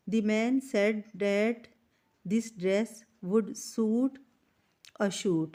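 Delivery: slow, careful dictation to the class; teacher reading the exercise instructions slowly; slow textbook read-aloud. Shown as a demonstration. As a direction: read each phrase out slowly for students. Reads example sentence aloud.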